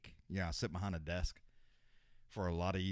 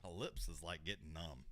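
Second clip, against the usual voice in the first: much softer, low murmur; hushed, numbed; 3 semitones lower, 8 dB quieter than usual. Real, not acted. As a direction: talk quietly through numb lips. Lips numb from spice.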